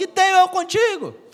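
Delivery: very high-pitched, hellish, demonic shouted voice. Retelling a Gospel scene of a man running at Jesus and crying out, demonic shout. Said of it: "gritando com aquela voz de inferno".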